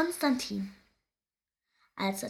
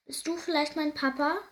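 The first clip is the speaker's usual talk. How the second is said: higher, tentative question; cautious little hare; 6 semitones higher, 3 dB louder than usual. A narrator's reading. Baby hare asking a busy weasel, lightly voiced and cautious. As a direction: ask with a touch of caution.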